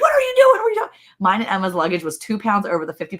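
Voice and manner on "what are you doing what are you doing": mock exasperated dad, much higher and louder; hammed-up fed-up father repeating himself; frustrated dad. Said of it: "He was just really frustrated".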